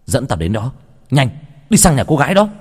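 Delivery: angry command building to a shout; urgent, agitated demand; barked order. Acted. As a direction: order the servant to take you there. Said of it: "Anh túm lấy cổ của thằng nô mà quát".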